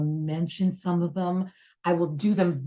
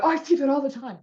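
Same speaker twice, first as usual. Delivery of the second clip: put-on kid voice; 9 semitones higher, 3 dB louder, faster than usual. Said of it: "kids are like".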